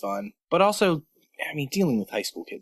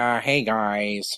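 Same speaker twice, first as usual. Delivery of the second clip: podcast voice; 3 semitones lower, much slower than usual. Shown as a demonstration. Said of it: "get my podcast voice on".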